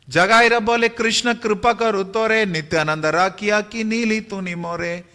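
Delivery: measured, lilting verse delivery; scripture verse recitation. A narrator's reading. (लय में पद्य पाठ)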